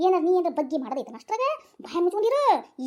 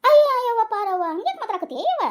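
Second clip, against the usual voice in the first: shocked exclamation; 5 semitones higher, 6 dB louder than usual. Acted.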